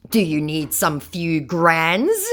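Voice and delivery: mock scammer. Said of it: "says my moron".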